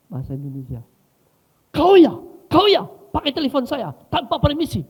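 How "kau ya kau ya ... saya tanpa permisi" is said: very loud, high accusation; angry shouting. Retold or imitated. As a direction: act out a furious man yelling. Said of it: "dia teriak di office itu".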